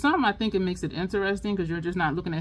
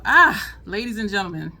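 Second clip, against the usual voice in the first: imitating comedian's intro; 8 dB louder than usual. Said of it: "he always starts his video".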